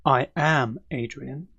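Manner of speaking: slow, separated words, lightly robot-like; slightly robotic. Shown as a demonstration. Teacher showing how the uncontracted name introduction sounds, slightly robotic. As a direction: say I AM in full, stiffly and slowly. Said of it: "sound more like a robot".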